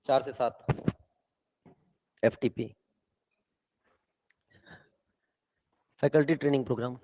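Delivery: weary grumbling. Real, not acted. Teacher sighs over packed schedule.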